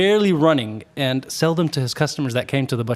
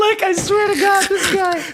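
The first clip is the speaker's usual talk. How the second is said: laughing disbelief. Real, not acted. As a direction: swear it while still cracking up. Laughing exclamation after punchline.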